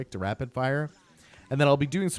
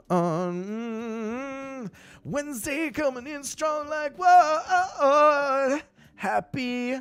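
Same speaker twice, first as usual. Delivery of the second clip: squeaky high voice; 13 semitones higher, 3 dB louder, much slower than usual. Pretend. Playful high bit for viewer.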